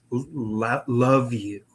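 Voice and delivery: halting imitation, at normal volume. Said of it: "a little bit louder".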